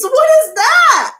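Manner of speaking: high, loud, slow disbelief; stunned. Real, not acted. Host still reeling from the comment, loud disbelief. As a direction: hit the word that with real shock. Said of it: "come out of my girly voice".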